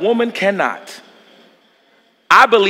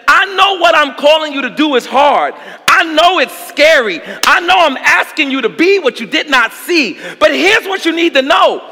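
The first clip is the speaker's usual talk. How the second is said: voicing God; 6 semitones higher than usual. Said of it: "God turns to Joshua and says".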